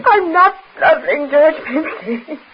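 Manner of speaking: loud, sharp protest; indignant retort. Acted. Millicent snaps at her brother, loud and indignant. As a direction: bristle and snap back.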